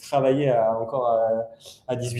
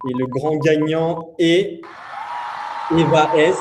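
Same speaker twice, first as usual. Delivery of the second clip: hyped giveaway announcement. Acted. Annonce du grand gagnant.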